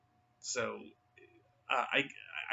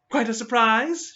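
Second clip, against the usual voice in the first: much higher, louder, slow and arch; pointed mock surprise; 11 semitones higher, 11 dB louder, slower than usual. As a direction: drag it out, needling them. Jacqueline's pointed question.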